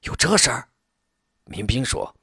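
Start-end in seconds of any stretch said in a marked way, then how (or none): 0.0-0.7 higher-pitched startled question; astonished. A narrator's reading. Startled underling reacting to news of the promotion, astonished. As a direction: blurt it out in disbelief. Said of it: "惊得眼有铜铃大".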